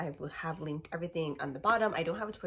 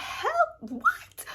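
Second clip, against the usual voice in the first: loud, high mock disbelief; high outraged squeal; 4 dB louder than usual. Reacting to a friend's betrayal, high loud squeal. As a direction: squeal it like you can't believe her.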